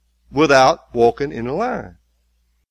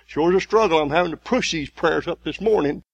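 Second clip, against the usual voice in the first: mock weary believer; 5 semitones higher than usual. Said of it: "you say".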